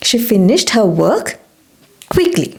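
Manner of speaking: slow, careful teacher read; deliberate classroom pronunciation; slow model sentence. Shown as a demonstration. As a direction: spell it out slowly for learners. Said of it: "എങ്ങനെ പറയും?".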